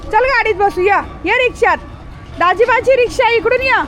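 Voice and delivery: high-pitched coaxing call; calling a dog. Real, not acted. (उंच स्वरात कुत्र्याला बोलावणे)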